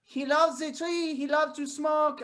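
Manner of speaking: put-on French accent; mock French-accented English; hammed-up French parent explaining. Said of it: "like we are all from France".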